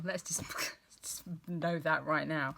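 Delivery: laughing whispered aside. Real, not acted. Aside about running out of time.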